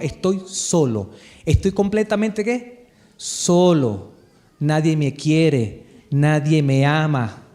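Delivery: slow, low and sorry for yourself; self-pitying lament. Acted. A believer sighing that nobody loves him. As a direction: moan it like poor lonely Calimero.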